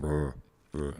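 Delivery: imitated Northern Irish rolling r; rolled R noise. Shown as a demonstration. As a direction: demonstrate a drawn-out trilled r. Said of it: "Lots of".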